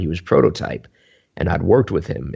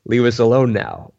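dismissive brush-off; 5 semitones higher than usual. Retold or imitated. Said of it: "it wasn't like".

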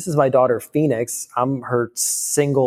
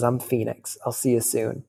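soft farewell; 6 dB quieter than usual. Retold or imitated. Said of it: "she says".

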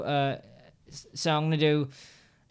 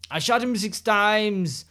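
slow, slightly higher movie-villain line; quoting a movie line; 5 semitones higher, slower than usual. Retold or imitated. Reciting her favorite horror quote to a friend, slow and dramatic. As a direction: deliver it like a slasher film quote. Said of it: "To refresh".

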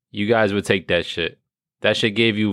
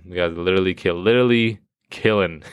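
ordinary talk, nothing marked

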